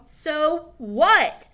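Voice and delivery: loud defiant snap; defiant retort. Acted. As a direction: fire it back.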